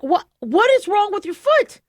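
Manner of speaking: high, worried question to the dog. Retold or imitated. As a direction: ask the bleeding dog in alarm, pitched high. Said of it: "I'm like".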